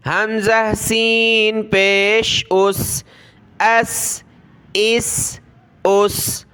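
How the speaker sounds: اس ending in a sharp whistled "s"; whistling s. Shown as a demonstration. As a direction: let اس whistle as as, is, us. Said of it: "یہاں پر سیٹی کی آواز آئے گی".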